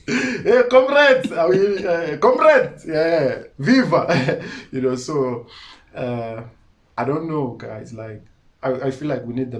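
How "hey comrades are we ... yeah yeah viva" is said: mocking a rally chant, much higher and louder; hammed-up street-comrade hailing the crowd; mimicking locals who call him a sellout. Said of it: "people feel like you're a sellout".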